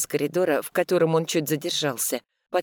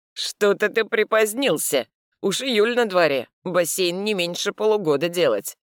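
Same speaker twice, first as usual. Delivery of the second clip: stern challenge; 4 semitones higher, 3 dB louder than usual. Acted. Mikhail accuses chief sternly.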